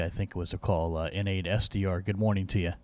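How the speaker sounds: ordinary delivery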